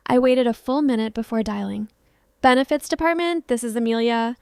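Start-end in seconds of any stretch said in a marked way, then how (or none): 2.4-4.4 nasal, perky receptionist voice; chirpy and nasal on the phone; bright nasal voice. Acted. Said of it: "a bright nasal voice answered".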